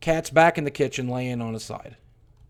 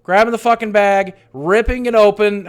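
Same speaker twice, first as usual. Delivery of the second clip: frantic; 8 semitones higher, 6 dB louder than usual. Real, not acted. Panicked retelling, digging up cat.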